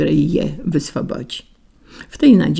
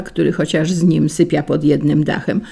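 ordinary delivery

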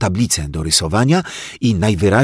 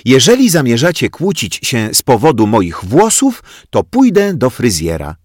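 higher, louder scolding teacher; teacher warning the quarrelling kids; exasperated teacher; 6 semitones higher, 6 dB louder than usual. Acted.

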